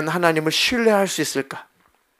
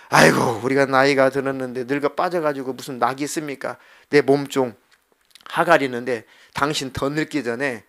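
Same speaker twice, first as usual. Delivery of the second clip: put-on grumbling old wife; 3 semitones lower than usual. Sarah complaining to husband, acted.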